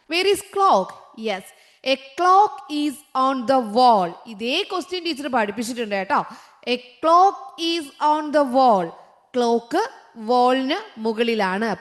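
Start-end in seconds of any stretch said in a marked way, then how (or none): 1.9-4.1 each word drawn out very slowly; slow dictation. Shown as a demonstration. Teacher reading the quiz sentence to her class, very slow. 6.7-8.9 each word drawn out very slowly; slow dictation. Shown as a demonstration. Teacher reading the quiz sentence to her class, very slow.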